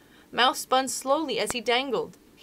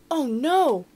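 whispered oh no; 5 semitones higher, 4 dB louder than usual. Pretend. Reader reacts to the story.

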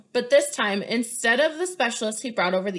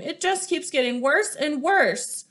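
despairing; 5 semitones higher, slower than usual. Acted. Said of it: "She began to sob".

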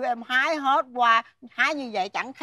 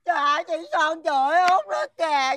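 high, whiny mock crying; bawling to the neighbours; tearful tattling; 3 semitones higher, faster than usual. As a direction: cry out the complaint like a child. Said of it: "tao nghe tiếng khóc của mày".

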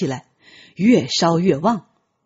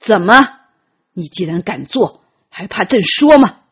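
angry retort; 6 dB louder than usual. Acted. Emperor scolds after accusing Tianqi.

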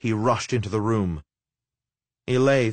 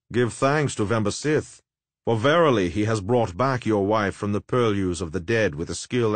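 oily, mocking necromancer. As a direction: savour the lie, smooth and sly. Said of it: "oily, mocking speeches of the necromancer".

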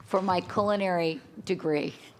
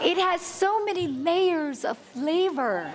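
laughing praise; 7 semitones higher, slower than usual. Retold or imitated. Teacher praising the soup.

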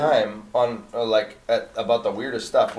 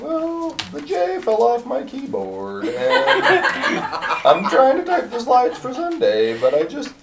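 much higher lady voice, giggling through the words; high laughing church lady; 12 semitones higher, 3 dB louder than usual. Retold or imitated. Church lady explaining the broken keyboard, high and giggling. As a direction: squeak it out high, laughing at the mix-up. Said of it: "she had kind of a sing-song voice".

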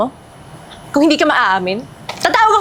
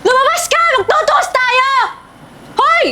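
high, raised calling voice; loud challenge; 6 semitones higher, slower than usual. Acted. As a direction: shout a challenge at someone indoors. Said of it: "ang lakas ng boses ng babaeng to". (malakas na sigaw na naghahamon)

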